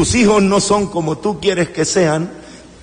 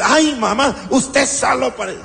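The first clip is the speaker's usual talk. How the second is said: hijo quejoso; 6 semitones higher than usual. Retold or imitated. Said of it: "cuando te regaña".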